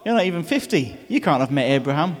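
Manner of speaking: smug gotcha. Retold or imitated. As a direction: sure they've caught him out. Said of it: "they think they've got him".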